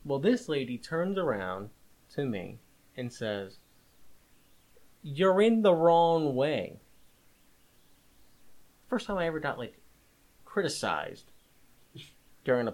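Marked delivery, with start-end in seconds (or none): 5.0-6.8 scolding. Retold or imitated. Quoting the lady scolding him.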